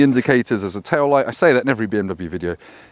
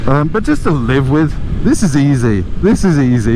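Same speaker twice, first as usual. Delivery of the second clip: raised voice over the wind; shouting over wind; 4 dB louder than usual. Real, not acted. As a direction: talk up over the road noise. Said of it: "so you can hear me over the wind noise".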